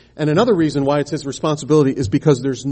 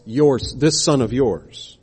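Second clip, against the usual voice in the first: "yours" and "this" slowed and leaned on; stress on yours; 2 semitones lower, much slower than usual. Shown as a demonstration. Preacher pointing out the son's words, slow and pointed. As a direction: drag out "this son of yours" to show the contempt. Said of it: "Notice it's not "my brother".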